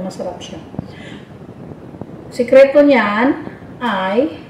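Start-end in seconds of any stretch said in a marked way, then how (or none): 2.3-4.4 slow, breath held in; holding breath. Shown as a demonstration. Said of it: "Huwag kang huminga habang kinakain".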